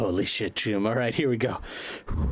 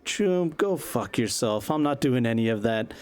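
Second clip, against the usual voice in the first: angry rock star; 5 semitones higher than usual. Acted. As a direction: spit the refusal at the vlogger. Kerry angrily refusing Buzz.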